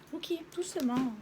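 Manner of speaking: calming a pet. Real, not acted. Calming her cat.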